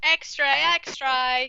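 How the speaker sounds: high, drawn-out newsboy cry; mock thirties British street urchin; old-time British newsboy. Riffing on thirties chimney sweep voices.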